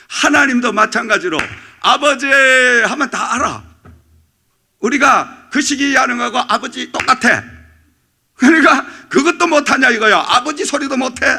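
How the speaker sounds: loud, high preacher's exhortation; fiery preaching. Acted. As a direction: drive it home to the congregation. Preaching at full force.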